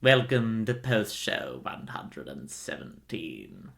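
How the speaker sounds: put-on old speech synthesizer. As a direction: drone it out like an old text-to-speech. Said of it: "I cannot do this voice for the whole time".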